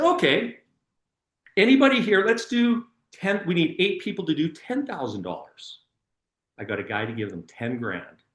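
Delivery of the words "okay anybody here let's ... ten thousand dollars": calling out to a crowd. Retold or imitated. Retold appeal to the crowd.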